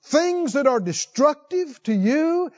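high, emphatic preacher's appeal; fervent preaching. Acted. Preacher pleading with his congregation, rising and emphatic. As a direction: lean in and press each point.

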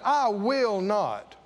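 slow, sassy I will not; smart-mouth refusal. Shown as a demonstration. Preacher voicing the sassy son to the congregation. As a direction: give it some smart-mouth attitude. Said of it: "That's, that's smart mouth".

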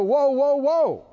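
alarmed catching yourself. Retold or imitated. Pastor shows believers catching their own worry, hammed-up alarm. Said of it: "You need to go".

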